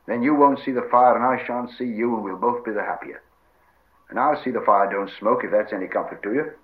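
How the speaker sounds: mildly lifted, emphatic character voice; reasoning, firm Sam. Acted. Sam bargains with Gollum over the coney, firm. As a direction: lay down terms with a touch of bossiness.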